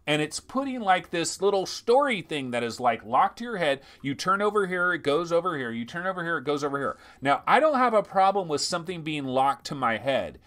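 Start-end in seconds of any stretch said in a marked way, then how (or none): none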